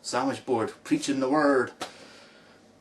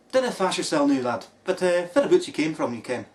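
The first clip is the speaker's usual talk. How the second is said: "Dinna fash yourself now, lad" in a hammed-up Scottish accent, spelled out more fully; mock Scottish accent; 4 semitones higher, 3 dB louder than usual. Mocking a supposed Scot, hammed-up Scottish accent. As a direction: lay the Scots on thick to mock him. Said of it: "broad Scottish accent like you do".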